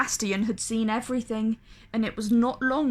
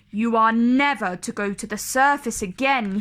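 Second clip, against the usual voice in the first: louder stern command; firm, raised royal order; 4 dB louder than usual. Acted. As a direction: lay down the law as a king. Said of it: "he ordered".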